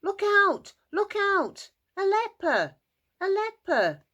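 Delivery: high, loud warning shout; panicked yelling. Acted. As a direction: yell it out like scared townsfolk.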